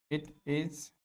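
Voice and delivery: "it is a university" very slowly, long pauses; drawn-out teaching model of "university"; syllable-by-syllable demonstration. Shown as a demonstration. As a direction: dictate "university" as yu-nee, pause, vas-tee. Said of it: "इसका pronunciation होता है यूनिवर्सिटी".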